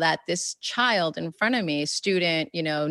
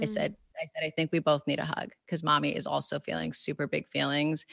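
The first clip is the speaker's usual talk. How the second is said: tender reassurance; 7 dB quieter, faster than usual. Retold or imitated. Soothing crying son after hug.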